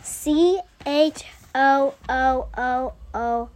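slowly spelled out. Shown as a demonstration. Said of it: "It goes".

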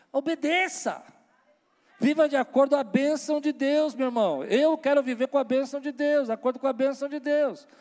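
loud, high fervent preaching. Real, not acted. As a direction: preach it out with force. Preacher exhorts at full force.

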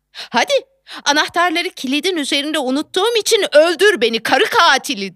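cocky, taunting retort; smart-alecky. Retold or imitated. Wife holding the keys to her husband, smart-alecky. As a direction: taunt him like a know-it-all. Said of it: "ukala bir tavırla".

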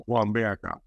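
voicing the autistic nephew's gruff way of calling; imitating a boy's gruff voice. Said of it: "porque habla así muy grueso".

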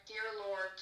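imitated Scottish-accented prayer. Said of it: "praying in a Scottish accent".

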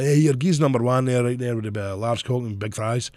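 ordering in a hint of thick Scottish; lightly put-on Scottish accent; mock thick accent. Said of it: "nobody understood what I was saying".

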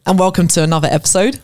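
exaggerated YouTuber intro; hammed-up host greeting; customer service voice. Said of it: "I'm, I'm putting it on".

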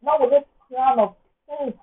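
dramatic loud complaint to God; dramatic refusal. Pretend. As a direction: refuse it loudly, hamming up the despair. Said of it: "being dramatic".

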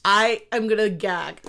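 gagging at the memory; retching while talking; dry heaving. Real, not acted. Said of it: "This is real gagging here".

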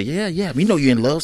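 high, mocking sing-song; teasing mimic. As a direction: tease her in a high mock voice. Teasing imitation of others.

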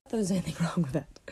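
hushed whisper with a giggle. Real, not acted. Podcaster whispering into the mic so nobody hears. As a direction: keep it to a breathy whisper. Whispered aside while recording.

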